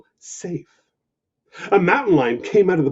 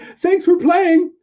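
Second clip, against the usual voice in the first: higher, slow polite puppy; 13 semitones higher, 7 dB louder, slower than usual. Acted. Puppy leaving the skunk, high and polite. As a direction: say it sweetly and back away.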